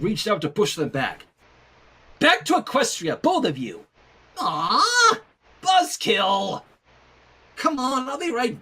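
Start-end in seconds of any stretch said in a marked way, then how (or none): 2.2-3.8 stern order. Acted. Twilight pushing them back. 4.4-6.6 whiny disappointment. Acted. Ponies disappointed being sent back.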